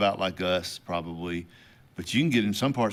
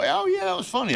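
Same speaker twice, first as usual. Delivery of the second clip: fake laugh. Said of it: "and you go".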